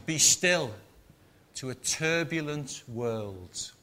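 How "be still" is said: shout. Retold or imitated. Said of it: "is shouting".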